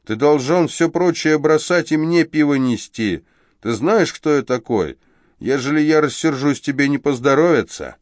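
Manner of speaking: high, loud bullying; threatening thug. Acted. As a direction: lord it over the waiter.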